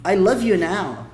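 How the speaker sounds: "love you" with no D, slow; slow, emphatic "love you now", V into Y; present form. Shown as a demonstration. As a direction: say "love" straight into "you", slowly. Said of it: "is different from".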